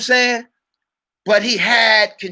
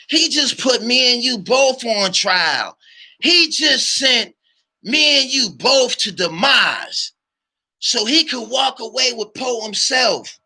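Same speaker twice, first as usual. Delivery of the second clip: angry accusation; 4 semitones higher than usual. Retold or imitated. Berating partner in retold argument.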